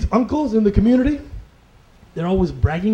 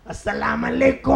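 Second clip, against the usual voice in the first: put-on Latino accent. Comic plays a Latino Muslim brother greeting, Latino accent. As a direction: greet with a stretched Latino lilt. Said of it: "one of our Latino Muslim brothers".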